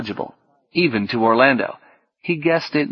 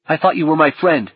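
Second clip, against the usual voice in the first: higher, wounded accusation; hurt anger; 5 semitones higher, 4 dB louder than usual. Acted. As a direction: accuse a friend, angry and pained. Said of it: "something like rage".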